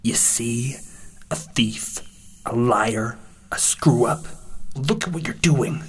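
harsh accusing roar; roaring inner voice. A narrator's reading. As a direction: roar up with rising force, naming each fault. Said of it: "voice roared up at last".

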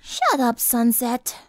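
bored, offhand brush-off. A narrator's reading. Rainbow telling the prisoner to shut up, bored. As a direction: dismiss her without much energy. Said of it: "said in a bored tone".

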